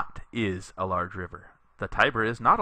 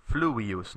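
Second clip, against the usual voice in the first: "fluvius" with the accent on the first syllable, FLU-vius; stress on the u; 2 semitones higher than usual. Shown as a demonstration. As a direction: lean on the u of "fluvius". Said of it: "you put the accent on the u here".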